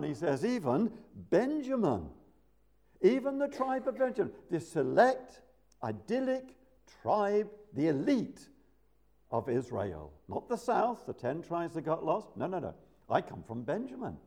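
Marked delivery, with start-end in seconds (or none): 0.4-10.1 proud boast. Retold or imitated. Paul boasting of his tribe.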